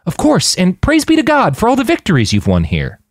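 high, eager, jittery lie; nervous young Manny. A narrator's reading. Manny nervously lying to the checkpoint guards, high and eager. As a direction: talk fast and high to sell it.

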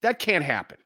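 high, drawn-out exasperated protest; fed-up fan's high-pitched complaint; mad. Real, not acted. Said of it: "I'm just mad".

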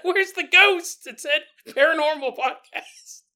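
high, loud, slow puzzled question; first-time listener baffled by the podcast. Pretend. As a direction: ask it baffled and drawn out.

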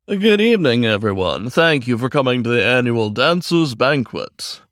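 formal emcee welcoming the room; lightly voiced aardvark host; announcer voice. Aardvark host at award banquet.

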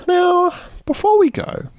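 high showbiz announcer. Acted. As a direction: announce it with a flourish.

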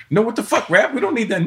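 own voice retold. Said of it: "And I go".

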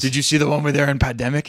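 quick, odd otherworldly alien voice. Pretend. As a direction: talk like a visiting alien. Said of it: "That was my alien voice".

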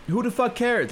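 high, incredulous burst of exasperation; exasperated outburst. Real, not acted. Ranting about the dress article.

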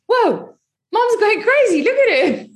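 high-pitched comic astonishment; imitated amazed kids. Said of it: "must seem quite comical".

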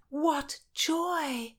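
high, delighted exclamation; joyful delight. A narrator's reading. Margaret hears her friend is with child, delighted. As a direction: let the joy lift the pitch.

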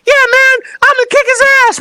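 very high, loud mock tough-guy voice; wrestler impression. Host imitating a wrestler's debut interview. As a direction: squeak out a tough-guy threat. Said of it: "This big-ass guy comes out".

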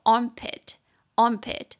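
armpit 慢慢念两遍，重音在 arm; 一字一字清楚示范 armpit; slow pronunciation drill. Shown as a demonstration. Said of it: "腋下可以学一下". (老师示范 armpit 的发音)

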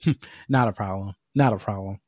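low, understated "not a problem"; lightly voiced man of few words; imitated repairman. Quoting the repairman's laconic reply.

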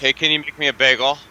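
lightly acted teenage request; teen asking favour. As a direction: switch to casually asking a parent. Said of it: "I'm gonna do some acting right now".

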